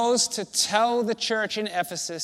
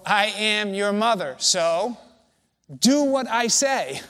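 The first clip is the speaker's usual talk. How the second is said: stern parent command; 2 semitones higher, 5 dB louder than usual. Retold or imitated. Preacher voicing a mother ordering her child, mock stern. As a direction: bark it like a parent who expects obedience.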